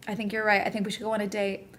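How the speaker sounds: soft, hushed mock concession; reluctant giving in. Acting out finally agreeing to a date, softly resigned. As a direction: give in quietly, as if worn down.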